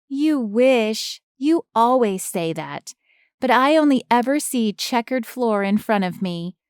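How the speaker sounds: put-on high, smug kid voice; young girl voice. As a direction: gloat like a little winner. Niece boasting.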